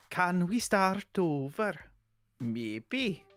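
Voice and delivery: Welsh accent attempt. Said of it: "That was more consistent".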